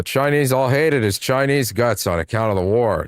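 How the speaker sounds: flat, even reading voice; monotone voice. Acted. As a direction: read it in one monotone. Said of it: "this monotone voice".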